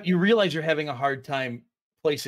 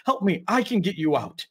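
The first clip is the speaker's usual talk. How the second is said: put-on crying child's plea; 3 semitones higher than usual. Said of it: "It's crying... it screams out".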